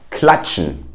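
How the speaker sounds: KLATSCHEN with tsch as in chair; German KLATSCHEN with a ch as in chair; TSCH as English ch. Shown as a demonstration. Teacher gives the word for clap, tsch as ch. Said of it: "will be pronounced as a ch".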